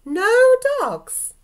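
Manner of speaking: high, loud shocked outburst; drawn-out, scandalised exclamation; indignant disbelief. Acted. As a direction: echo it back in loud, high-pitched outrage. Outraged reaction to the letter's ban.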